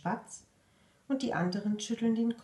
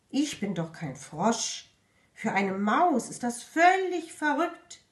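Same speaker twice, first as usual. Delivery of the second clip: offended; 3 semitones higher, 4 dB louder than usual. Acted. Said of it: "Die Maus ist beleidigt".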